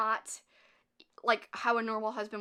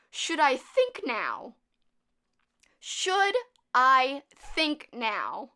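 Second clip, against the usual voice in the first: slow, drawn-out mock question, louder each time; mocking timid question; 2 semitones higher, 6 dB louder, much slower than usual. Mocking the heroine asking if she should think. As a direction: ham up her nervous question. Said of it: "I'm gonna keep repeating it because it's absurd".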